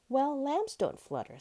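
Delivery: high storybook lamb retort; insistent lamb. A narrator's reading. Lamb answers butterfly in a story.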